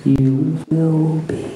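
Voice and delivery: slow, stress on will; Yoda voice. A narrator's reading. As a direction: lean on will. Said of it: "said Yoda".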